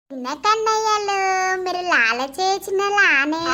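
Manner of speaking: put-on slow, drawn-out sing-song to a baby; cooing baby talk. Mother greets her freshly bathed little one, cooing slowly. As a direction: coo over the baby, stretching each phrase.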